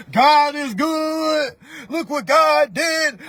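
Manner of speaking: mock-grateful. Mock grateful social media post.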